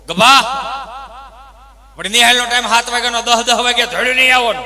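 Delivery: loud, fast teacher's rebuke; scolding teacher. Retold or imitated. Teacher scolding the late pupil Gabha, loud and fast. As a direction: bark it at the late pupil like a stern schoolmaster. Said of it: "સાહેબે એવું કીધું".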